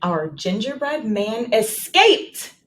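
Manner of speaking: smooth, steady read-aloud; teacher reading the sentence aloud; fluent reading. Shown as a demonstration. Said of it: "let's read it one more time".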